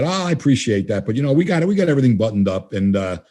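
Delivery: a light imitation of a courteous refusal; polite, gentle brush-off. The vice president politely turning down his offer, lightly imitated, gentle and courteous. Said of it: "very nicely and politely and gently".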